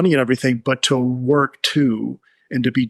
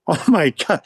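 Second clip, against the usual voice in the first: amazed; 5 semitones higher than usual. Retold or imitated. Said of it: "medical staff was just like".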